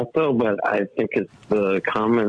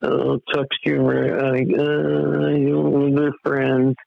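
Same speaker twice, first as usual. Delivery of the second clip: higher, drawn-out mocking imitation of a timid pushover; mock meek pleading; 4 semitones higher, slower than usual. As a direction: play a wishy-washy appeaser, stretched and higher. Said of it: "sitting back on the bench and like".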